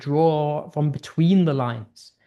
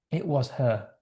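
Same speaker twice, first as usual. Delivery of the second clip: 1 loaded line; 4 dB quieter than usual. Shown as a demonstration. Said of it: "so much subtext in that".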